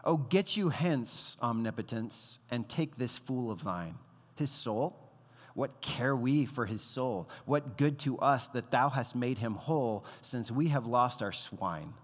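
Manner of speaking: slow, measured recital of verse; poem reading. Acted. Preacher reading a poem to the congregation, measured recital. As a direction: read the poem with weight and pauses.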